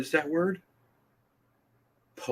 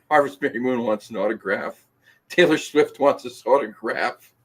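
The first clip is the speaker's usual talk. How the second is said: laughing; 3 semitones higher, 5 dB louder than usual. Real, not acted. Reading comment through laughter.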